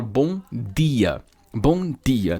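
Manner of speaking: DIA with a plain tongue-tip D; Pernambuco-style BOM DIA; Northeastern hard D. Shown as a demonstration. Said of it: "no Nordeste do Brasil, é muito comum".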